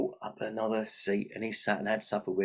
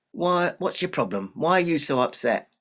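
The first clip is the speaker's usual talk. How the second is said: higher, perky imp voice; inquisitive little imp; 5 semitones higher, 6 dB louder than usual. Acted. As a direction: pipe up as a curious imp. Imp questions the despairing girl.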